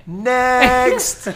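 mild mock yell. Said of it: "the chick would just scream out".

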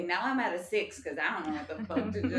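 building from hurried muttered thoughts to loud, laughing outburst; mock panicked rant. Anxious person's inner thoughts spiralling, mock panic.

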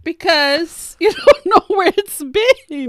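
giggling high-pitched warning; laughing, high and loud. Real, not acted. Laughing warning about thrift lingerie.

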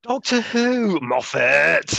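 high, loud mock cry at Moffat; hammed-up exasperated yell; playfully shouting at the showrunner; mock outraged shout.

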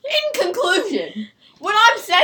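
slow, self-important wrap-up; pompous essay voice. Pretend. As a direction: sound like a know-it-all concluding. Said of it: "What is this, an essay?".

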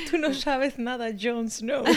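laughing caricature of a Castilian TV dub; hammed-up Spain Spanish accent. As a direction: ham up a Spanish-from-Spain dubbing actor. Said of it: "doblada en español de España".

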